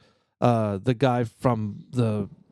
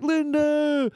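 Rocky-style call; 14 semitones higher than usual. Retold or imitated. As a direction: bellow like Rocky. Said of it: "Kinda sound like Rocky Balboa".

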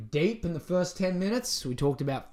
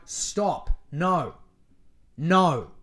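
firm no; much slower than usual. Shown as a demonstration. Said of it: "Not as aggressive as that".

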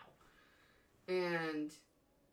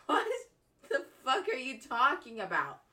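mock yell; 6 semitones higher, 10 dB louder than usual. Sister retells baffled reply to brother.

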